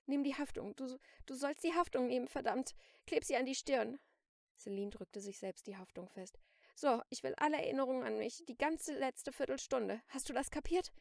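loud, high, impatient orders; angry commands. A narrator's reading. Celine orders the captive shopkeeper about, angry and loud. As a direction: drive the orders home forcefully.

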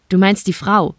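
ordinary delivery, nothing marked

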